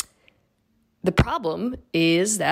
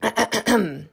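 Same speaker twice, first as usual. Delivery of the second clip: throat clearing; 4 semitones higher than usual. Real, not acted. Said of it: "I will do the witch accent one more time".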